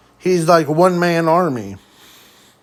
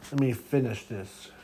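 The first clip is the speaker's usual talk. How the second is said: much softer, lower, restrained quote; quiet; 4 semitones lower, 14 dB quieter than usual. Acted. Zuko speaking to All for One under the rubble, quietly. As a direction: drop it down low and soft. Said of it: "as he quietly says".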